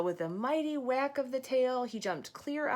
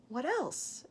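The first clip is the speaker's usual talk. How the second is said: impatient; 4 semitones higher than usual. Acted. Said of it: "asked the fish impatiently".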